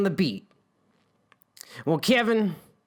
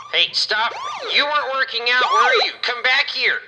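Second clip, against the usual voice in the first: loud, high chase shout; yelling after him; 6 semitones higher, 5 dB louder than usual. Acted. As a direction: call out sharply to stop him. Guard chasing the fleeing man.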